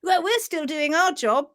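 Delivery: hammed-up happy cowboy cell; gleeful yeehaw. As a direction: whoop as you ride on. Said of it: "The papillae at the heels are like".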